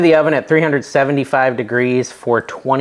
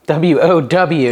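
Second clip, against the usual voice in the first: letters spelled slowly, one by one; slow deliberate spelling; 3 semitones higher, 3 dB louder, much slower than usual. Retold or imitated. Spelling out a catchphrase.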